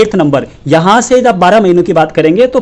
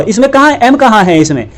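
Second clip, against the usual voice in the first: sharp, higher indignant question; exasperated; 3 semitones higher than usual. Real, not acted. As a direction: demand where the m is. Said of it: "exasperated teacher".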